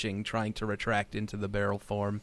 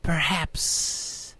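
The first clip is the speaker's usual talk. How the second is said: unearthly voice; 6 semitones higher, much slower than usual. Acted. Unseen creature answers the heroes.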